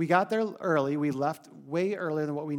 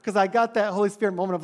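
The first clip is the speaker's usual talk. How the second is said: higher and louder, quick and sheepish; laughing self-blame; 7 semitones higher, 10 dB louder than usual. Real, not acted. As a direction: own up with an amused burst. Speaker admitting own fault laughing.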